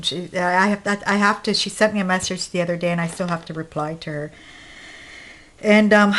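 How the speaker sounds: short of breath, catching air between phrases. Real, not acted. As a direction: talk while struggling to catch your breath. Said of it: "I can't catch my breath".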